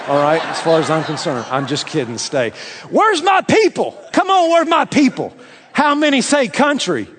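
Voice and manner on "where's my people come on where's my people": calling out. Real, not acted. Calling out to his crowd.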